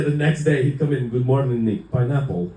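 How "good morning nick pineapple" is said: dad's odd emphasis on "pineapple"; "pineapple" with the weight on the wrong vowel; dad's pronunciation. Retold or imitated. Dad greets son each morning, oddly stressed "pineapple". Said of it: "that's how he said pineapple".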